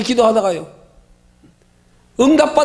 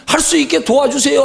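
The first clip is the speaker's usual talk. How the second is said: raised, emphatic quote of a prayer; preached prayer; 3 semitones higher, 3 dB louder than usual. Acted. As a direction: cite the plea in a preaching voice. Same prayer, cited while preaching.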